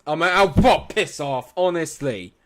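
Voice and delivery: loud, exasperated shout; angry outburst. Real, not acted. Streamer yelling at a saved shot, loud and furious. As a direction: blow up at the screen in disbelief. Furious gamer reacting to a save.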